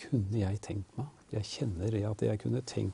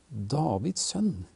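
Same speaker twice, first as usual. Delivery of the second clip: mild retold cry; 4 semitones higher than usual. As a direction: imitate a blind man's plea, lightly raised. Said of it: "men så roper han".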